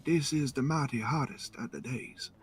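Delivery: high, hammed-up cartoon Southern voice; mock Southern accent. Imitates Southern cartoon talk.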